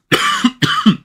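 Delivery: harsh sick cough; one rough cough. Real, not acted. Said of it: "I'm trying to clear my throat".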